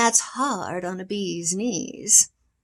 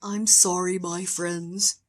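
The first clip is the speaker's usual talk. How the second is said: sad; 4 semitones lower than usual. Acted. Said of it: "said the elephant sadly".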